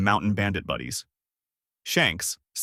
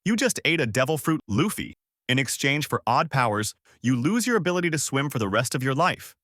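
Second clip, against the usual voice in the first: raised, urgent explanation; yelling; 3 semitones higher than usual. Acted. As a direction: warn him urgently. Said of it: "Shanks yelled out".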